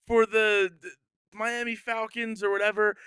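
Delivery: high, loud mock hype; hyped-up announcing. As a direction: build up the kid's big touchdown like an excited team. Voices team hyping sick kid's run.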